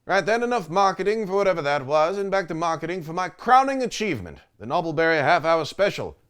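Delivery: lightly put-on British accent; a smug Brit plugging his show; British character voice.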